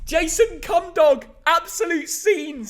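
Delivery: hammed-up Aussie-Cockney bloke; Cockney accent. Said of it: "why are you doing a Cockney accent".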